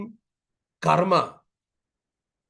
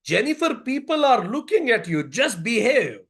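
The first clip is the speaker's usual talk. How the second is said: lightly acted embarrassed mother; retold mother's scolding; 5 semitones higher than usual. Mother with onlookers watching, higher mild scolding. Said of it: "Mother again said".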